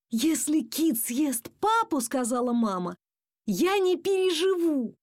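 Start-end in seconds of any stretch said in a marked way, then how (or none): 0.1-2.0 high, slow dread; worried mother. A narrator's reading. Mum fearing the rat eats dad, worried. 3.5-5.0 high, drawn-out lament; distraught mother. A narrator's reading. Mum saying she would not survive it, distraught.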